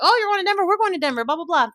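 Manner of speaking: high bright put-on voice; imitating herself, sweetly high; chirpy mock reply. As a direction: play it sweet and eager. Acting her own chirpy reply.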